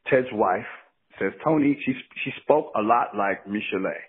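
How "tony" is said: small, timid mousy voice; a light, tiny imitated voice; mousy little voice. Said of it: "Real little mousy voice".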